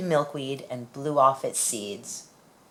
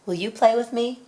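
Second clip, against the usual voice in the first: hopeful asking; 9 semitones higher, 3 dB louder than usual. Acted. Child asks animal to play.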